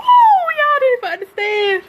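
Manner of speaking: snotty crying. Real, not acted. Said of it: "I got an ugly cry".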